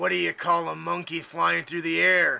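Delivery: creaky, rough, booming giant-robot bellow. Narrating a game, voicing a giant robot who grabs the player, bellowing. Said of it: "he kind of bellows".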